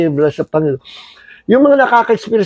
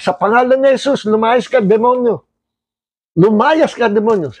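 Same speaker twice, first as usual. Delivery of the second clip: raised, firm command to the demon; commanding rebuke; 4 semitones higher than usual. Shown as a demonstration. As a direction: order the demon out in Jesus' name. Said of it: "Ganito po".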